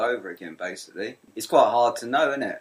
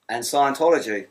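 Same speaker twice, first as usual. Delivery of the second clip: dramatic announcement; 4 semitones higher, 6 dB louder than usual. Acted. Dramatic topic reveal.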